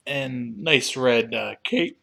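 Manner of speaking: talking through hiccups; hiccuping mid-sentence. Real, not acted. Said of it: "Excuse me, hiccuping".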